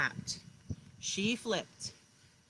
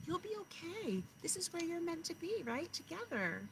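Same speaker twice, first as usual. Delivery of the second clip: reassuring parent; 7 semitones higher than usual. Retold or imitated. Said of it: "your moms and dads said".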